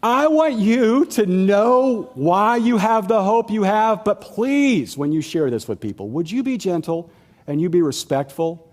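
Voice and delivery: earnest apostle. Acted. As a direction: plead gently with the church, drawn out. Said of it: "But he says here".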